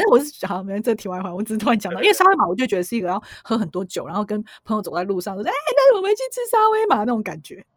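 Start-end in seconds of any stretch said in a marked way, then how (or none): 5.5-7.0 put-on lively drunk suggestion. Drunk friends suggesting late food.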